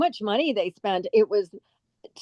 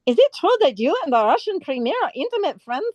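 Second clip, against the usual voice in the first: higher, lightly put-on Asian accent; 5 semitones higher than usual. Actress recalling her comedy role, comic Asian accent. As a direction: deliver the film line in a comic Asian accent. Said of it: "I had to talk with Asian accent".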